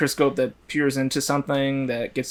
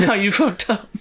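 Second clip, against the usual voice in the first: mock alarm yelling; 7 semitones higher than usual. Imagined warning system yelling at the user. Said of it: "I would have the warning go".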